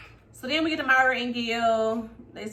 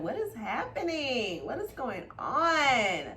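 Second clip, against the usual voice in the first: 1 slow bewildered alarm; 3 semitones higher, slower than usual. Retold or imitated. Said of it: "I'm just like".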